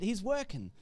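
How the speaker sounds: softly repeated, falling away; a hushed repeat; quiet echo. Shown as a demonstration. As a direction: let the words sink in quietly. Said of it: "preacher repeats the phrase".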